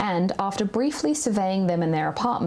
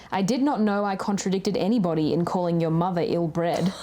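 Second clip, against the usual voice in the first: reading while laughing. Retold or imitated. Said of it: "And then he said".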